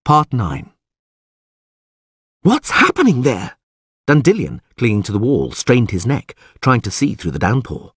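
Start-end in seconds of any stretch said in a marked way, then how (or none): 2.4-3.6 high, urgent call; anxious calling out. A narrator's reading. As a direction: call out to find out what's going on. Dandelion straining to see, calling out.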